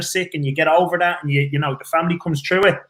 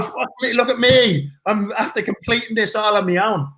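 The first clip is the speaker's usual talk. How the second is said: mock triumphant shout; 4 semitones higher than usual. Expecting fireworks and dancing ladies.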